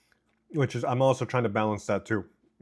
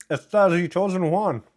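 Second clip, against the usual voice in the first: excited announcement; 7 semitones higher, 5 dB louder than usual. Real, not acted. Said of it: "correcting name emphatically".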